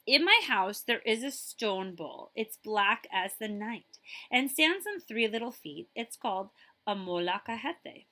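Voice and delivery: lively storybook reading; reading to children. Acted. Librarian reading a picture book to children, lively. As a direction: read it like story time for kids.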